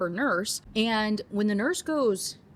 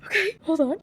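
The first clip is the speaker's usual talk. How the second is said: higher, louder stunned stop; real surprise; 9 semitones higher, 4 dB louder than usual. Real, not acted. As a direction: pull up short, taken aback. Reacting to shocking passage.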